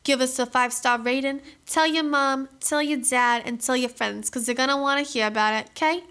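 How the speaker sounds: mock-cheerful podcast sign-off as a Boston gal, barely in character; Boston gal impression. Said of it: "my impersonation of being a ... Boston gal".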